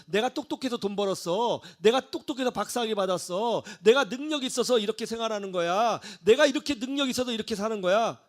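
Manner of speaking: mock boasting. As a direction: brag in a rising, insistent list. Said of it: "자기 능력이라고 생각한 거예요".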